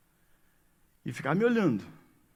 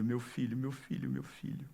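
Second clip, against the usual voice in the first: fading softer with each "meu filho"; tender father; 4 dB quieter than usual. Acted. Father embracing returning son, growing ever softer. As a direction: let "meu filho" melt away softer each time.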